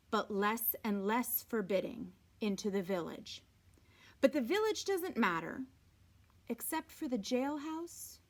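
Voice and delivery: even, unhurried read-aloud voice; story narration. A narrator's reading. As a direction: read the novel steadily to the class. Teacher reads novel aloud to class.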